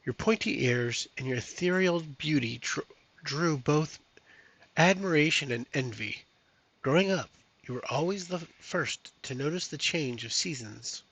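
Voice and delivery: measured storybook read-aloud; story narration. Acted. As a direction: read it like the opening of a fantasy tale. Reads the campaign story text.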